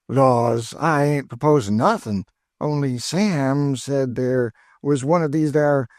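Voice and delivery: put-on high, eager old cook's voice; high cheerful Chloe, teasing her missus; Aunt Chloe. A narrator's reading.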